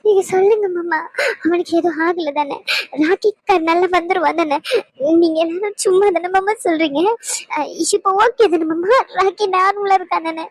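sobbing refusal that turns into begging; weeping, desperate for news of Rocky; crying and pleading. Acted. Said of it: "இப்ப எதுக்கு அழுதுகிட்டு இருக்க நீ?". (அழுதுகொண்டே கெஞ்சுதல்)

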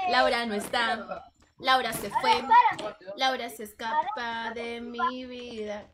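slow, mock-tragic lament; mock heartbroken lament. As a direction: drag it out like a sad ballad. Melodramatic lament.

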